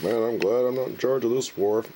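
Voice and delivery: mild mock relief; relieved General Grant. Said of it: "He's like".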